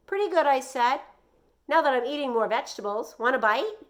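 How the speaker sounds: high, bright, friendly hello; cheerful teacher greeting. Acted. Teacher arriving at the porch greets Joey, high and cheery. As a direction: greet the boy warmly from the steps, pitched high.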